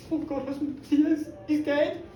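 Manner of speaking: high, rising into a panicked cry; panicked wife. Acted. Wife realising they killed him, high panicked cry. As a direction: horror climbing to a wail. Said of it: "she looked at him and went".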